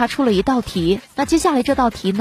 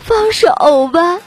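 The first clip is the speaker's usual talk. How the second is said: mock calm; 9 semitones higher, 7 dB louder, much slower than usual. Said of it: "我就淡定的说道".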